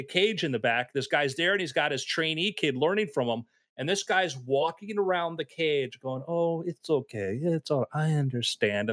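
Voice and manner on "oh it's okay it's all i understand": slow, gentle calming of an angry cat; soothing. Retold or imitated. Trainer calming the angry cat, slow soothing voice. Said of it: "just soothing voice".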